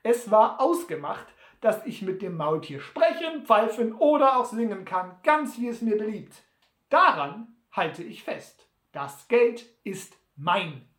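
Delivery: lightly voiced crafty bettor, firm; self-assured Sam. Sam claims his winnings from Butler, firm and self-assured. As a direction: insist lightly but firmly on the bargain.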